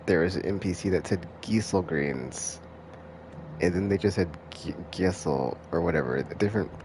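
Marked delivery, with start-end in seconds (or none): 1.4-2.6 long EE in Gysahl, the NPC's way; NPC's pronunciation. Retold or imitated. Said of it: "different pronunciation". 4.9-5.6 the second NPC's version of Gysahl; different pronunciation. Retold or imitated. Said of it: "different pronunciation".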